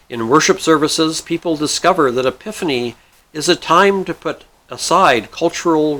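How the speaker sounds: measured scripted narration; read-aloud article. A narrator's reading. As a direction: read it out like a prepared piece.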